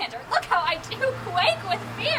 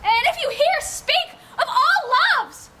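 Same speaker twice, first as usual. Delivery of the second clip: louder, higher desperate calls; calling out; 4 semitones higher, 3 dB louder than usual. Acted. Hermia searching the wood for Lysander, desperate loud calls. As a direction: shout into the dark for him.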